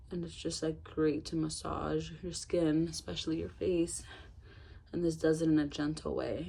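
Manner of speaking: breathless, panting between phrases; out of breath. Real, not acted. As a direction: talk while short of breath. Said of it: "I'm sorry I'm out of breath".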